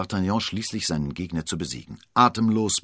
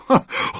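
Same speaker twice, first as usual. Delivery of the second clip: giggle; 9 dB louder than usual. Acted. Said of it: "kicherte D'Artagnan".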